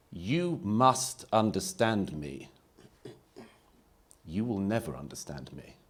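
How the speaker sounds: slow, insistent voicing; mock identity demand. Speaker voicing identity politics to the audience, slow and insistent. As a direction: spell out the contradiction slowly. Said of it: "two statements stated simultaneously".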